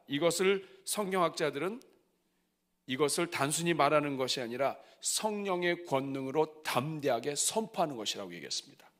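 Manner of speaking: usual speaking voice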